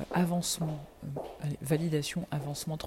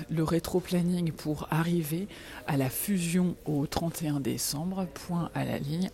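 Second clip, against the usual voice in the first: dictating. Real, not acted. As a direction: dictate an email word by word. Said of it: "je peux plus dicter".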